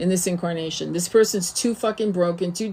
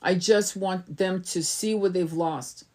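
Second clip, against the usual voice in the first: imitated spiteful wish; 5 dB quieter, slower than usual. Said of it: "heard people say that in readings".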